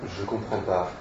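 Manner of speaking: low, soft and uneasy; ill at ease. A narrator's reading. Turando admitting confusion to Charles, ill at ease. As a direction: say it small, a little uncomfortable. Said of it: "pas à l'aise du tout".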